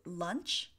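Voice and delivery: "Lunch" with a short UH vowel; pronunciation demo. Shown as a demonstration. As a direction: say "Lunch" as a model word, short UH, rising at the end. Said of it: "how can we pronounce launch".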